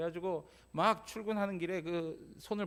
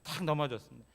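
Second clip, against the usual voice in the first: ordinary delivery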